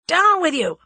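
loud urgent shout; shouted order to duck; cried out. A narrator's reading. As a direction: bark it as a warning. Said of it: "cried Julius".

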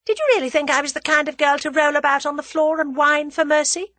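scornful. A narrator's reading. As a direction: pour scorn on the very idea. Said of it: "said Tuppence scornfully".

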